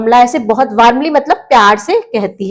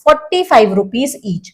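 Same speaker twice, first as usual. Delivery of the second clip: slow, careful lesson read; teacher reading a storybook line very slowly; slow reading aloud; much slower than usual. Shown as a demonstration. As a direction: read each English word slowly and clearly for learners. Slow English reading for learners.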